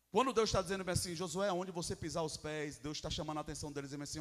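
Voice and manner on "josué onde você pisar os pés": God speaking gently. Acted. Voices God speaking to Joshua.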